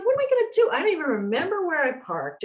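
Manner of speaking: mock panic. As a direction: act out the flustered wife. Panicked quote to husband.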